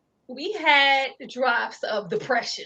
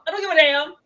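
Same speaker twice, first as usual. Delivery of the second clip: the same line again, a notch louder than usual; milder repeated shout; 4 semitones higher, 3 dB louder, faster than usual. Retold or imitated. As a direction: still angry but coming down. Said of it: "But it wasn't one of them".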